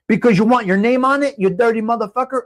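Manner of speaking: angry. Real, not acted. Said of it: "forgive my passion for this".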